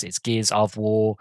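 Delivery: "of" given its full vowel in "Gears of War"; slow down and land clearly on "of"; stress on "of". Real, not acted. Fan pointing out the restored title word, stressing "of". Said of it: "they brought back the of".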